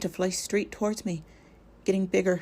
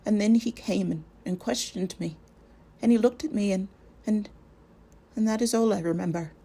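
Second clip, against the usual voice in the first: frightened stammer, higher and halting; 4 semitones higher than usual. Acted. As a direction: stumble over the words, scared. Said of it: "stammered Pippin".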